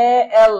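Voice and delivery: এ এল split into a vowel "e" and then "el"; demonstrated pronunciation. Shown as a demonstration. Teacher showing how L begins with a vowel, split এ এল. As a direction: separate the opening vowel in এ এল. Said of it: "এরকম উচ্চারণ".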